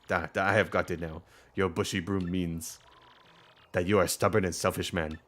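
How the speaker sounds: villager giving a verdict in mock-Russian accent; makeshift Russian accent. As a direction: put on a rough Russian accent. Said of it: "I can't do a Russian accent".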